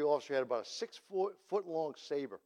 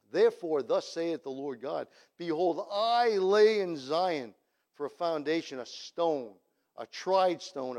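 scripture reading. Acted.

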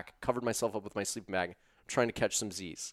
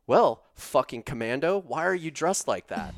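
mock angry retort; 5 semitones higher, 7 dB louder than usual. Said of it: "And I'm like".

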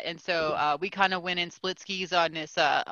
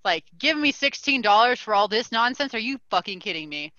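retold anger. Customer retelling the sixteen-dollar refund, contained anger. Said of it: "I was just mad".

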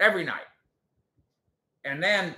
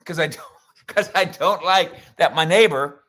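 loud, higher-pitched mock complainer; Karen imitation; 3 semitones higher, 10 dB louder than usual. Host mocks a neighbor complaining to the news, loud Karen imitation. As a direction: put on a loud, aggrieved Karen voice. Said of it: "that's my Karen imitation".

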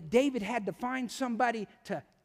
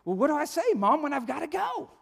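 a hint of a puzzled little boy; lightly voiced child; 3 semitones higher, faster than usual. Little Johnny asks his mom, lightly voiced child. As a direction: lightly imitate a kid's question, lilting up. Child questions mother in story.

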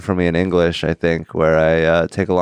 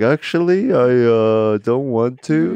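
cheeky refusal; 5 semitones higher, slower than usual. Retold or imitated. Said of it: "I was like".

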